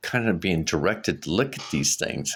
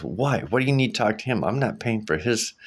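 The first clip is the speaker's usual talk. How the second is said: imitating a put-out ex, higher pitch; mock protest, pitched up; retold objection; 4 semitones higher than usual. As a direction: challenge it like an objecting ex. Ex objects to psychic's offer.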